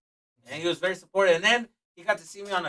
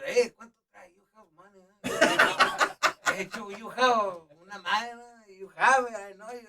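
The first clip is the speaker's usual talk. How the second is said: a loud, high-pitched mock Mexican dad; hammed-up dad hitting him up for cash; imitating his dad; 5 semitones higher, 5 dB louder, slower than usual. Dad imitated asking for money.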